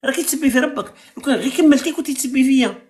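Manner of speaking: you're insulting your own God, push back; heated rebuke. Real, not acted. Host scolds caller for insulting God, heated and high.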